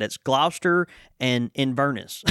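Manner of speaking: "Gloucester" said "Glau-ster" and "Inverness" with a flat "-nuss"; American place names. Shown as a demonstration. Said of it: "we don't say 'em like that".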